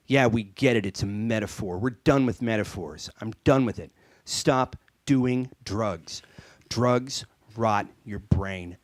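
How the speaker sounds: fed-up PSA man. Acted.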